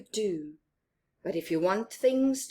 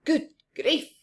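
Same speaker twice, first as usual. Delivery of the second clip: surprised exclaim; 7 semitones higher, 3 dB louder than usual. Acted. Character exclaims at teeth.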